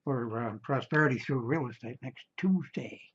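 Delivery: hoarse, gravelly speaking voice. Real, not acted. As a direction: talk through a rough, gravelly throat. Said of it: "my gravelly voice here".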